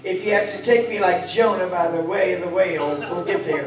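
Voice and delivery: prayer demo. Shown as a demonstration. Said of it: "you gotta talk like this".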